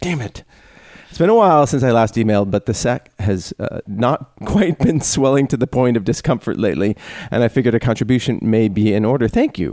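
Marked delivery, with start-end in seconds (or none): 1.1-9.7 reading the letter in an Australian accent. Shown as a demonstration. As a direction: put on a light Australian accent. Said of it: "do it in an Australian accent".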